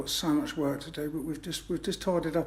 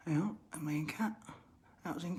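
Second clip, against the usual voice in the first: whisper; 6 dB quieter than usual. Real, not acted. Aside while packing.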